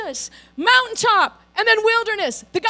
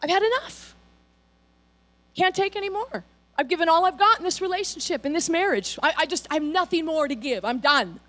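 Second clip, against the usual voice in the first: weary despair; 3 dB quieter than usual. Retold or imitated. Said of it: "maybe you can really relate".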